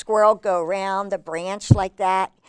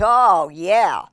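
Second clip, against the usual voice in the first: louder, lightly acted squirrel; squirrel remembering; 7 dB louder than usual. Squirrel recalling where the nut went, mildly emphatic. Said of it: "And he says".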